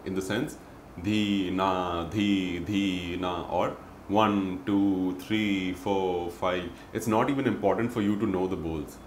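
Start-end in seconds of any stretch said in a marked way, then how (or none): 1.0-6.7 flat, monotone count with no intonation; like a robot. Shown as a demonstration. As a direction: recite like a robot, no tone at all. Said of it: "we would sound like a robot".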